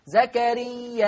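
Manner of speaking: "زكريا" mit sechs Zählzeiten auf dem Alif, langsam; Alif lang gedehnt. Shown as a demonstration. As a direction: das Alif in "زكريا" weit ausziehen. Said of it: "مد الألف بمقدار ست حركات هكذا".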